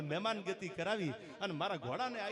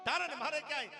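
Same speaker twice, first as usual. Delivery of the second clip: moved exclamation; 6 semitones higher than usual. Acted. Prince moved by hospitality.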